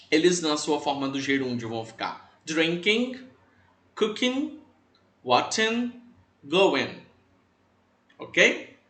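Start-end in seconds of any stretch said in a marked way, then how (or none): 2.4-7.0 drinking, cooking, watching, going with the final g left unreleased; silent final G. Shown as a demonstration. Teacher listing gerunds, drinking, cooking, watching, going without a spoken g. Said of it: "parece que você não fala o G no final".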